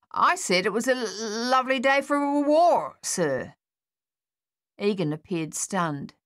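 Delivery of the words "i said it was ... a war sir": stammering reply. Acted. Soldier answers captain.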